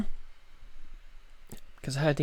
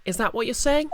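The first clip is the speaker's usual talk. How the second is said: higher, startled questioning voice; shocked character voice; 6 semitones higher than usual. Acted. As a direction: ask it in disbelief.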